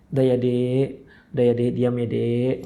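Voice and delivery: tender, low hushing of a loved one; gentle soothing. Acted. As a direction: play a husband calming his crying wife. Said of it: "tenangkanlah dia".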